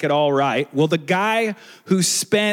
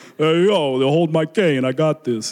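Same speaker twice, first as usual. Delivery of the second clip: voice of an aging veteran heavyweight boxer. Imitating the old heavyweight champion from the last movie: Rocky Balboa impression. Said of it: "He's like".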